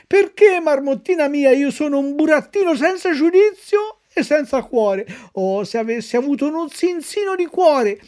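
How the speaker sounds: a puppet regretting abandoning the fairy; remorseful puppet. Acted. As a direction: confess the fault with a plaintive edge. Pinocchio's remorseful confession.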